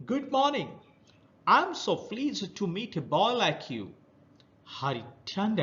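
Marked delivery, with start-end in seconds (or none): 0.1-3.9 high, hoarse crab greeting; hoarse creature voice. Acted. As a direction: greet like a rough sea creature. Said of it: "a hoarse voice near him".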